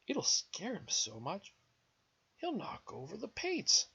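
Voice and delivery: put-on lively children's story reading; picture-book narration. A narrator's reading. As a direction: build the story up for small children.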